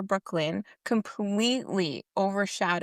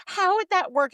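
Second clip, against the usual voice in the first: mocking character; 9 semitones higher, 5 dB louder than usual. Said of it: "she's like".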